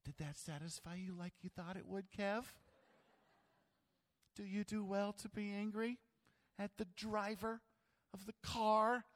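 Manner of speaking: a hint of a patient God scolding; God gently scolding Kevin the driver; mild God rebuke. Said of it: "I could just hear God going".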